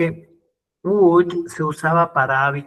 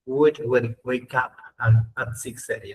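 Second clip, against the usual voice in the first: slow model reading; slower than usual. Shown as a demonstration. Teacher reads the English example slowly to the class. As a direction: read slowly, word by word. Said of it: "pero literalmente dice".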